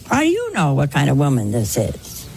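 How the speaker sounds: P=A; pointed challenge. Retold or imitated. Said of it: "And I wanted to say".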